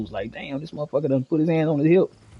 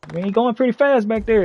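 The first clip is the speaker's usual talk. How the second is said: mock cop voice; 8 semitones higher than usual. Cop voice at traffic stop.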